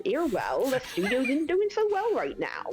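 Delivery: lightly voiced chatty studio assistant; a hint of a character voice, swinging in pitch. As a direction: give testimony with a swooping, sing-song tune. Plays studio assistant in the game.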